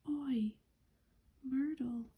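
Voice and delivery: a mild mock bellow breaking out of the whisper; half-voiced call across the hall. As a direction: Peeves taunting, calling out to Myrtle with a mild bellow. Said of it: "He took a deep breath and bellowed".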